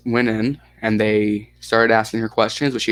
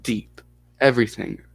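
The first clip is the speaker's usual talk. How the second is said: put-on halting, mild Russian accent. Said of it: "you like the Russian accent".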